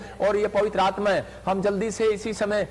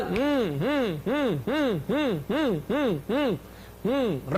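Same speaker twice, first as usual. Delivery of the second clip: swaying prayer hum, rising and falling; rhythmic hum. Real, not acted. Hums between commands.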